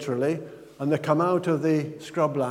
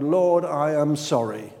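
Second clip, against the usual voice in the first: slow, sincere prayer; mean it, slowly; a slow, heartfelt confession; earnest plea. Retold or imitated. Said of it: "you say to the Lord".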